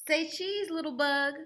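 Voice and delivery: put-on child voice. Ruthie photographing.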